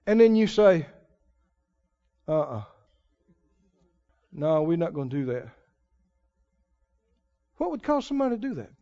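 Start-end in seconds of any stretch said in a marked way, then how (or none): 2.3-5.5 mock refusal. Mocking people refusing God.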